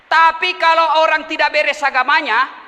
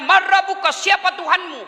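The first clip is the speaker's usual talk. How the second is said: higher, questioning angel voice; stern angel; 6 semitones higher than usual. Acted. Angel questioning the dead man in his grave, stern and high. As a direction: demand the answer from the dead.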